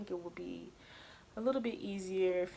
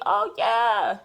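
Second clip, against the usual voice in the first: higher mock doctor, breezy diagnosis; imitating doctor; 8 semitones higher, 5 dB louder than usual. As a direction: play the doctor, higher and matter-of-fact. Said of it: "He gonna pull back my labs and see".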